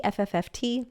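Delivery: short spitting raspberry sound; pfft sound. Shown as a demonstration. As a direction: blow a dismissive pfft through the lips. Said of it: "And my sound is".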